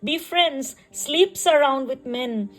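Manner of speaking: measured poetry reading with pauses between phrases; poem recitation. Acted. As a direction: recite it line by line, lingering on phrase endings. Recites her own poem.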